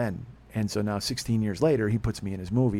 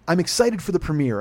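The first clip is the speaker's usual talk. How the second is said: louder, eager retold enthusiasm; excited gushing; 4 semitones higher, 4 dB louder than usual. Producer telling the podcaster about the premiere, excited. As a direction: gush with building emphasis.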